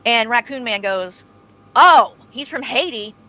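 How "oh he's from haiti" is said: mock Haitian accent, loud on no wonder. Retelling a streamer's racist remark in a mock Haitian accent. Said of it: "She's trying to do his accent".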